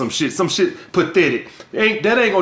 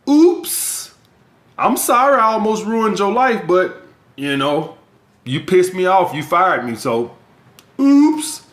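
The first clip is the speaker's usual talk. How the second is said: mock sheepish accuser; slower than usual. False accuser brushing off ruining a man's life, flippant. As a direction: toss off the apology like it's nothing.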